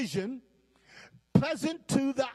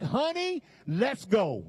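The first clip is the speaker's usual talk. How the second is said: urgent call; 3 semitones higher than usual. Pretend. Adam voiced urging Eve away.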